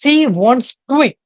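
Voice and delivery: "She wants to eat" stretched very slowly, with a w glide between to and eat; slow demo. Shown as a demonstration. Teacher models the sentence very slowly for students. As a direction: drag each word out slowly. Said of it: "आप इसको बोल के देखिए".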